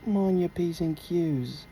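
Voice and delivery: slow British pub warning; British accent. Pretend. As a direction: warn a mate in a mock British accent. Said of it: "You like my British accent".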